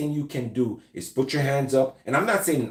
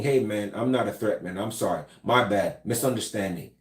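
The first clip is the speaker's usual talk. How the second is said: non-threatening apology; 4 semitones lower than usual. Shown as a demonstration. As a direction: back down gently, hands up. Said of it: "verbally saying".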